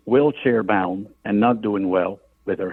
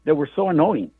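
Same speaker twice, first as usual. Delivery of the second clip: put-on laughing old man; 6 semitones higher, faster than usual. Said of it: "To which he began laughing".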